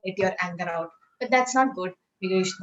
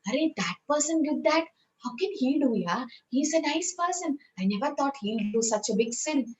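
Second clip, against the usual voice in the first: mock shock; 5 semitones higher, 3 dB quieter than usual. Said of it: "Sometimes we get shocked".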